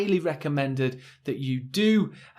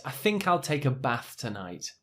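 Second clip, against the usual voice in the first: softer northern English accent, short a in bath; northern English, bath with a short flat a; 6 dB quieter than usual. Shown as a demonstration. Teacher shows how most UK people say it. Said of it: "a bit more like this".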